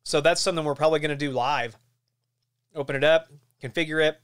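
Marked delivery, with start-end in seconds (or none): 2.7-4.2 talking while chewing gum; words round a wad of gum. Real, not acted. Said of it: "Sorry, I've got gum here this morning".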